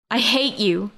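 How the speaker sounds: a mild outcry of hatred; crying out. A narrator's reading. Rose crying out at the murderer who taunts her. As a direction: cry out, with restraint. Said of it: "Rose cried out".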